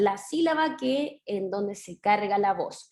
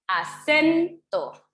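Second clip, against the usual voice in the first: "acento" very slow, "CEN" pushed higher and stretched; stress on CEN; 5 semitones higher, 4 dB louder, much slower than usual. Shown as a demonstration. Teacher confirming a pupil's answer, "a-CEN-to" with a high, stretched CEN. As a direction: punch and lengthen the "cen" in "acento". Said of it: "Específicamente se carga la voz".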